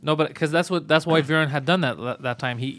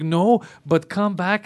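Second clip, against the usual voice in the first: mock manager; 4 semitones higher, much slower than usual. Manager's reply mimicked, very slow.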